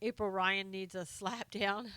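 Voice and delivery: slow, conspiratorial whisper. Real, not acted. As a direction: whisper it as a cheeky aside. Conspiratorial aside about April Ryan.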